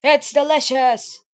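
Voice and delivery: talking with mouth full. Acted. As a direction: say it through a mouthful. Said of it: "Talks with her mouth full".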